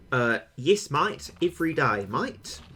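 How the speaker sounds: deliberately bad Australian accent; a lightly put-on Australian twang on "mate"; hammed-up mock Australian accent; stilted Australian accent. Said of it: "I can do a lot better Australian accent than that".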